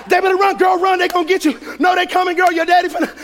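mock-panicked movie heckling; panicking wife. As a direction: urgently yell advice at the screen, imitating a wife. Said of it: "as she's panicking".

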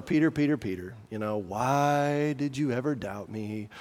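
Jesus. Acted. Imagined Jesus shaking his head at doubting Peter, mildly shaming. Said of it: "shaming tone of voice that Jesus would be saying".

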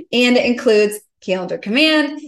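laughing. Real, not acted. Still laughing after the joke.

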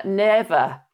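mock Welsh auntie's catchphrase; lightly Welsh-accented retort; Welsh aunt. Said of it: "That's another one she does".

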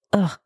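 short exasperated "ugh"; disgusted ugh. Real, not acted. Host reacting to a toxic combination, disgusted ugh. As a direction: let out a brief sound of disgust.

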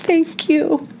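squeaky high-pitched thanks; high squeaky thank you. Retold or imitated. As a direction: gush it out in a tiny high voice. Repeats thanks higher, breathy.

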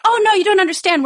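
high, brushing-off mock reply; dismissive Dutch acquaintance. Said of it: "And they're like".

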